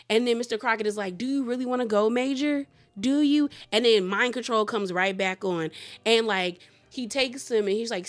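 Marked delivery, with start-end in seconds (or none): 1.2-3.5 coaxing villain. Retold or imitated. Mister Crockett coaxing Major back.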